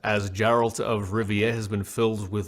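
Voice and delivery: put-on measured British accent, deliberate and dramatic; Henry Cavill. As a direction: read it as a stately British-accented statement. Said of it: "That's a fantastic accent".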